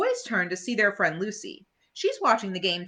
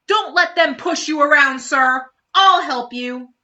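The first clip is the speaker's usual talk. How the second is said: higher, louder eager call; brave Marcy; 7 semitones higher, 8 dB louder than usual. Acted. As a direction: rush in to defend. Marcy rushing to help.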